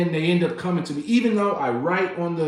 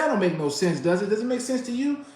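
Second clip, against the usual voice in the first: retold yelling; 6 semitones higher than usual. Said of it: "this is where I'm yelling".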